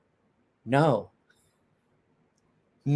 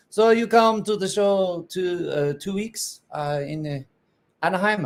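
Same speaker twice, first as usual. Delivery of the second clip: Nicholas impression; 6 semitones higher than usual. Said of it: "my Nicholas from Bastinelli Knives impersonation".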